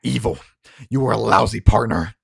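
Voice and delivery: loud, building denunciation; angry tirade. Acted. Harlan denounces Baraka at gunpoint, loud anger. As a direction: build from firm to loud fury.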